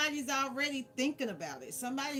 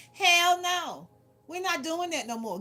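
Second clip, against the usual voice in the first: emphatic; 3 semitones higher, 5 dB louder than usual. Real, not acted. Emphatic refusal.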